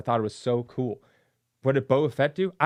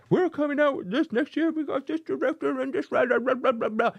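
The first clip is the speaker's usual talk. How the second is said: mock studio announcement; 12 semitones higher, 3 dB louder than usual. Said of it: "they planned on them".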